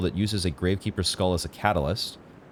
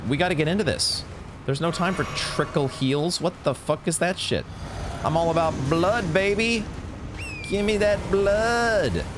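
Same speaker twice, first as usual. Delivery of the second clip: voicing the summon; 7 semitones higher than usual. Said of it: "He's like".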